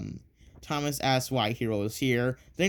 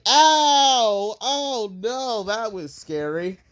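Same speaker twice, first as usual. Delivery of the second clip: scared yelp; 8 semitones higher, 5 dB louder, much slower than usual. Retold or imitated. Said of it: "and he's like".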